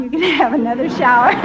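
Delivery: fast, laughing through the words; can't hold back the laugh as you say it. Real, not acted. Laughing while retelling the offer.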